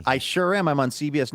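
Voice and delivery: a hint of smug celebrity; mock proud reply. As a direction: act pleased to be recognized. Acting out his proud reply.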